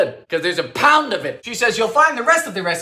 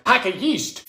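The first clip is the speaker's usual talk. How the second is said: ordinary talk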